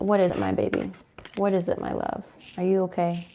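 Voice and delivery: soft voice for the dog; tender pet talk. Real, not acted. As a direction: coo softly to your pet. Talking to her dog.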